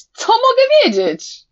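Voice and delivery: shouted. A narrator's reading. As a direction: hurl the question out. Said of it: "ostatnie zdanie wykrzyknął". (wykrzyczane pytanie)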